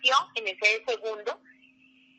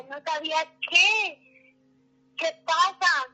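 slow, a touch higher and louder, distressed; mild retold panicked yell; 7 semitones higher, 5 dB louder, slower than usual. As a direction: cry out in confusion and fear. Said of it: "yo gritaba y gritaba". (grito angustiado leve, lento y algo más agudo)

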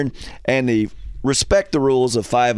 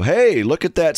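calling out; 5 semitones higher than usual. Acted. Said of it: "be the one to go".

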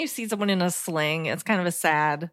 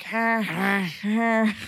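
mock Peter Griffin groan; 4 semitones higher, much slower than usual. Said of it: "laying on the ground like Peter Griffin".

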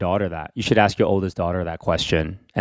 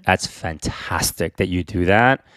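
gentle parental comforting, unhurried; soothing reassurance; 2 semitones lower than usual. Pretend. Parent sits daughter down to say it's not her fault, soothing. Modelled comforting talk to child.

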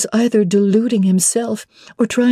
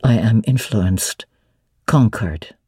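lower, steady male voice for Mr Rochester; 9 semitones lower than usual. Acted. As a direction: drop into the master's lower register, assured. Rochester voiced by female narrator.

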